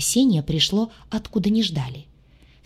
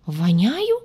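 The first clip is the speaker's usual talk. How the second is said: bewildered sob. Acted. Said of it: "то ли растерянно, то ли ошарашенно всхлипнула".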